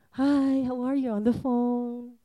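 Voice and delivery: put-on sweet, giggly teen on the phone; giggly late night call. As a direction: play a lovesick teenager saying goodnight. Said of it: "one of the funniest things that we used to do when you had a boyfriend".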